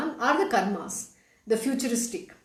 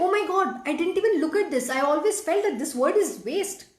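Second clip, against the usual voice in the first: mildly shocked quote, pitched up at first; a touch of astonishment, higher voice easing down; retold shock; 4 semitones higher than usual. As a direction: imitate someone stunned by a realization. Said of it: "he was shocked because he understood".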